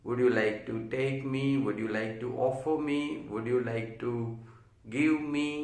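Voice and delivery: slow, careful drill repetitions; patient classroom drill. Shown as a demonstration. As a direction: say each one slowly like a teacher. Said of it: "दूसरा सीखना है".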